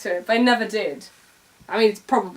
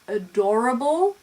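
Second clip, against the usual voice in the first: Scottish intonation; 2 semitones higher than usual. Retold or imitated. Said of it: "every time she said".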